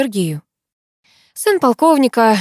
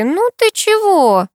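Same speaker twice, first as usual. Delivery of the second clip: much higher, slow mild tearful plea; sobbing softly; 12 semitones higher, 4 dB louder, slower than usual. A narrator's reading. Masha comforting her upset friend, lightly tearful and slow. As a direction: let a light sob pull the words out slowly. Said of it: "всхлипнула Маша".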